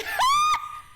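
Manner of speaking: sudden high burst of laughter; loud laugh. Real, not acted. Player reacting to the pained face, loud laugh. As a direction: crack up out loud.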